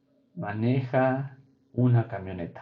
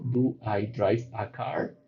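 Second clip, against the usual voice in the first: slow dictation; much slower than usual. Shown as a demonstration. Maestra lee la oración modelo.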